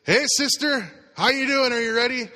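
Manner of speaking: high, loud imitation of an anxious woman; nervous passenger calling her sister. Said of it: "she leans over and says".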